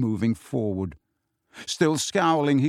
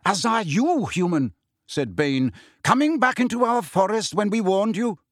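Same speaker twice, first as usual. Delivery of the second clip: menacing centaur; 7 semitones higher than usual. A narrator's reading. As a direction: threaten the intruder coldly. Bane threatens Hagrid.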